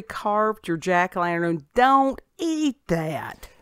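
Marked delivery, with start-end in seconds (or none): 1.7-3.5 slow, high, drawn-out warning. Pretend. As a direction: stretch out the warning.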